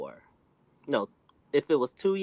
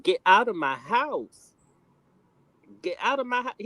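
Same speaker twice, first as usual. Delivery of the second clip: raised mock yell at her to get out; a fed-up man ordering her out of his house; imitating angry yell; 3 semitones higher, 4 dB louder than usual. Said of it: "started to lose his patience".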